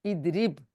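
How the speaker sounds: इदरिब closed on b with no vowel; sukoon ending. Shown as a demonstration. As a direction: end इदरिब on a bare b. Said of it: "उसमें सुकून आता है".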